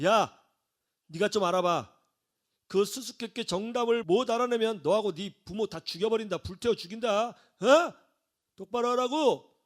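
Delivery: gangster-like intimidation, lightly acted; mock menacing demand; acted threat. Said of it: "협박하고 갔어요".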